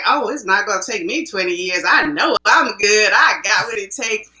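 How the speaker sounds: put-on cocky, sing-song young self; pompous. Young acting student dismissing the instructor's warning, pompous. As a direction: brush it off with swaggering confidence. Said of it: "I remember sitting there pompous".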